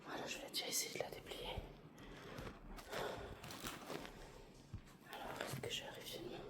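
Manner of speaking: soft fast whisper. Real, not acted. Whispering near sleeping baby.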